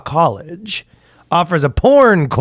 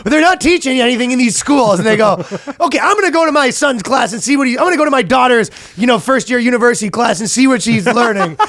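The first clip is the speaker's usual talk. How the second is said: much higher mock indignation; mock outraged parent; 9 semitones higher than usual. Comic mocking an outraged parent, much higher. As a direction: play the huffy parent.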